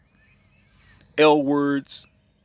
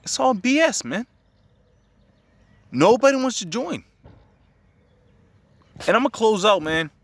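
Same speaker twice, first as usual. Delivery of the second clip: heated rant; 10 semitones higher, 3 dB louder than usual. Real, not acted. Ranting about military recruitment.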